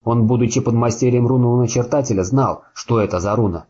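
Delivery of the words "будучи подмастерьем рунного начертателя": ordinary delivery, nothing marked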